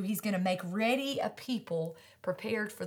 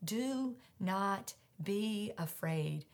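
soft reassurance; 6 dB quieter, slower than usual. Acted. Repeated to congregation softly.

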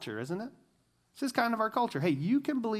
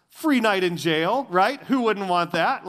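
sarcastic; 3 semitones higher, 6 dB louder, slower than usual. Acted. Sarcastic punchline about jail reward.

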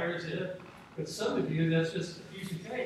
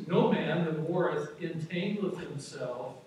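scripture reading; slower than usual. Acted. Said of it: "It says".

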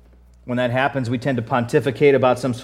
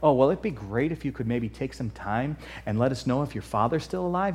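soft, courteous mock request; mock politeness; 3 dB quieter than usual. Imagined interpreter politely asking the brothers about their father, mock-gentle. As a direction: ask it gently, as if no trouble at all. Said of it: "the interpreter wasn't like".

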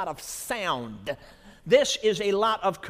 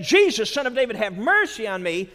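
crying out; 5 dB louder than usual. Acted. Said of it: "He cried out".

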